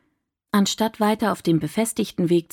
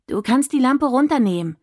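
calling out; 6 semitones higher than usual. A narrator's reading. Dahlia calls out to the flashlight, raised and higher. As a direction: call out across the dark garden. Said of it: "rief sie dem Licht entgegen".

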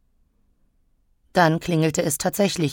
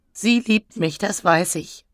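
high-starting plaintive whimper; 4 semitones higher than usual. Acted. Elektra alone, longing for Maya, whimpering. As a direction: whimper it, coming down in pitch. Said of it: "wimmerte ich".

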